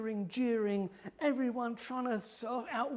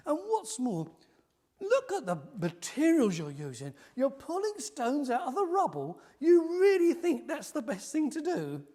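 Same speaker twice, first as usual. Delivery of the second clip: louder mocking jeer; scornful taunt; 5 semitones higher, 7 dB louder than usual. Enemies scorning the materials, mild loud sneer. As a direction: sneer at their rubble stones. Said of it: "pouring scorn and laughing".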